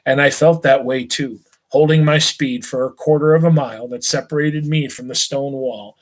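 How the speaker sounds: steady read-aloud narration to a class; story narration. A narrator's reading. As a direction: carry the escape scene along, even and clear. Teacher resumes reading the novel.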